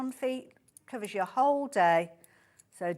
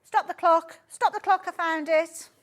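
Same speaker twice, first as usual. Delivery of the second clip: loud, high game-show shout; Annika Rice; 8 semitones higher, 9 dB louder than usual. Pretend. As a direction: call out urgently to halt the countdown. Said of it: "Turned into Annika Rice".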